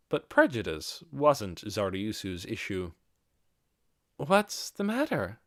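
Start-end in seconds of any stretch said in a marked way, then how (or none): 4.2-5.4 slow, higher puzzled question; ask, honestly confused; perplexed. A narrator's reading. Chief puzzled by the guest frozen at the door, slow and higher. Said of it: "she asked, perplexed".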